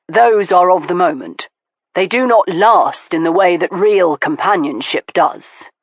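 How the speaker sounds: lightly voiced man, keen and earnest; Stoker, eager sincerity. Stoker eagerly assuring Veronica, sincere. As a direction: lean in and mean it.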